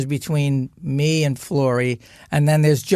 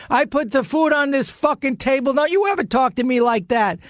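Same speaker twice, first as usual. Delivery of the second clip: higher, heated mock tirade at the table; stepfather yelling; 8 semitones higher than usual. Stepfather roars at the mother over dinner, heated and higher. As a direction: bang the table and lay down the law. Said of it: "And he goes".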